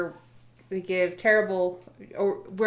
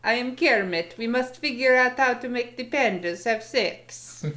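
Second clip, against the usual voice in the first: Russian Kermit; 3 semitones higher than usual. Retold or imitated. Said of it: "the Russian Kermit".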